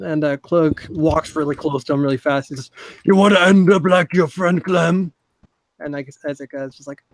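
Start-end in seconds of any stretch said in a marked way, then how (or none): 3.0-5.1 louder, pressing threat; menacing threat. Acted. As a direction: lean in and threaten. Cloak threatening Isaac up close.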